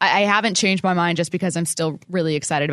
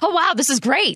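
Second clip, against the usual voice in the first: amazed; 7 semitones higher than usual. Retold or imitated. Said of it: "like trying sugar for a first time".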